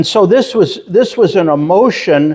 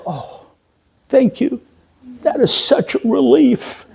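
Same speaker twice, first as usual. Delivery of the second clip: retold relief; 9 semitones higher than usual. Retold thanks after being reassured.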